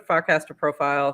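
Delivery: light Boston accent slipping in. Real, not acted. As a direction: Farcaster with a dropped Boston r. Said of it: "my Boston accent is gonna slide in here".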